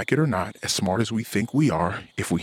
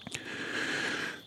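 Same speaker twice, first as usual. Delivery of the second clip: heavy sigh; 12 dB quieter than usual. Real, not acted. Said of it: "I'm still trying to remain calm".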